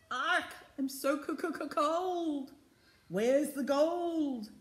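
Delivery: high, drawn-out parrot squawk; screeching parrot. A narrator's reading. Green parrot demands gold from the crew, screeching. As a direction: stutter with cold, then stretch the words out slowly, high.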